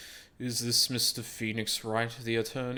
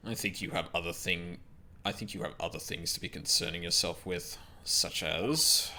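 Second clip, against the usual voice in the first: lower, cool arrogant prosecutor voice; Edgeworth voice; 4 semitones lower than usual. Acted. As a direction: read it like a haughty prosecutor. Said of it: "I'm gonna give this person Edgeworth's voice until then".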